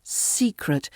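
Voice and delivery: secret with SE stressed, second syllable light; stress on first syllable. Shown as a demonstration. Teacher repeats the tip, secret stressed on its first syllable. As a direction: put the weight on the SE in secret. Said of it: "the first syllable".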